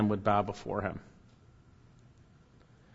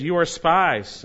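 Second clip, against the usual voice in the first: slow, higher, louder accusing; harsh accusation; 5 semitones higher, 6 dB louder, much slower than usual. Acted. Joseph accusing his brothers, slow and harsh. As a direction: spit out the charge at the brothers.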